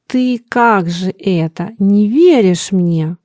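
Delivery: slow, thrown voice asking in disbelief; hurt old man's faltering question; strange shaken voice. Acted. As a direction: ask it slowly, voice unsettled. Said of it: "странным голосом спросил он".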